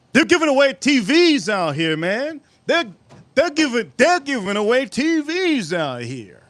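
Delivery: high, amazed outcry; can't believe the deal, pitch way up; excited disbelief. Real, not acted. Amazed at free TVs.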